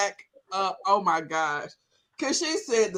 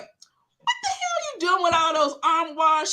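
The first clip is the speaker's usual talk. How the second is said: higher, drawn-out mock disbelief; retold baffled reaction, stretched out slow; incredulous; 6 semitones higher than usual. Friend questioning the armoire habit, incredulous.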